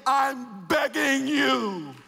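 pleading, high and drawn out; begging preached high. Acted. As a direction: beg them from the pulpit, slow and high. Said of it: "I am begging you".

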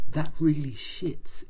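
slowed, a touch of menace, lightly voiced; intense and scary. Narrator imitating Action Man's mangled phrase, mildly intense. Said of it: "in this really very intense and scary way".

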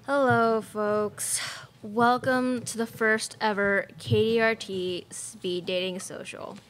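smooth radio host voice, love is in the air said slowly; radio show host. Acted. Radio host welcoming listeners to speed dating, cheesy host voice.

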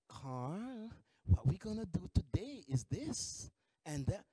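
lightly imitated gentle, low instruction; soft, low, patient mock coaching; nurturing coworker. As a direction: coax softly, as if guiding a child. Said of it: "nurture him".

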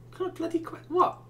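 high, cracking incredulous yelp; can't believe the question; stunned disbelief. Real, not acted. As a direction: breaks off into a shrill, baffled what. Baffled by the scarecrow question.

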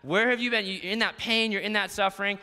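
urgent call. Acted. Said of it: "You see that?".

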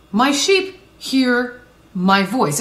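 slow, deliberate stress on "voice"; weighty, spaced-out words leading to "voice"; emphasis on VOICE. Real, not acted. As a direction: draw out "My sheep hear my voice", landing firmly on "voice". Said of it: "Why the emphasis on the word voice".

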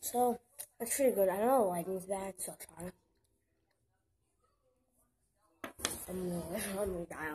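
talking between bites; chewing while talking. Real, not acted. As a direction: mouth partly full of chocolate. Seen 1: Bites chocolate at -2.0, then closed-lip chewing between phrases.

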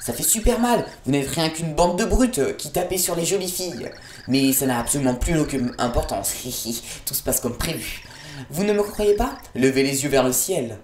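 a hint of a smug villainess, mocking the heroes; lightly voiced villainess. Gamer reading the villainess's taunts to the heroes, lightly mocking. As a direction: read her taunts with light glee. Voicing boss dialogue.

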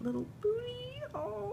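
tearful high squeak of delight; cooing squeal. Real, not acted. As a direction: coo over something adorable. Cooing over cute item.

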